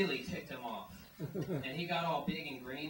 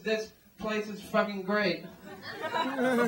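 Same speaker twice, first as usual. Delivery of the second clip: mock rejoicing; 6 semitones higher, 8 dB louder, slower than usual. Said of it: "you'll rejoice".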